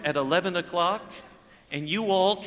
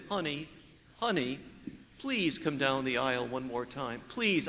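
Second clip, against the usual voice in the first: soft, lowered begging; gentle pleading groom; 5 semitones lower, 8 dB quieter than usual. Retold or imitated. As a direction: beg her softly to come. Groom begs the bride.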